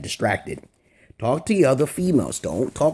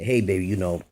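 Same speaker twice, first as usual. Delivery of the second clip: smooth line; 5 semitones lower than usual. Shown as a demonstration.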